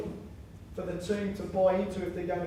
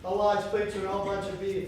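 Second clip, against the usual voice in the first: Thin Wayne; 3 dB louder than usual. Acted. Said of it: "Thin Wayne will say".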